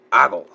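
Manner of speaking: "Ogle" said AH-gul, stress first; pronunciation demo. Shown as a demonstration. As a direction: say "Ogle" as AH-gul, falling at the end. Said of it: "I believe that's how you say it".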